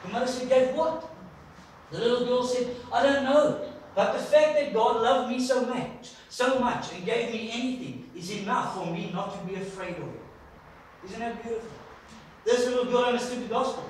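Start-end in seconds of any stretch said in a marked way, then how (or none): 0.5-1.1 puzzled mother. Retold or imitated. 2.9-10.2 put-on little girl's answer. Little girl answering mother, voiced.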